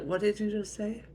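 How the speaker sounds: high-pitched, rising challenge; offended mom voice; indignant mother. Acted. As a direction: dare the child to repeat it. Mother challenges defiant daughter.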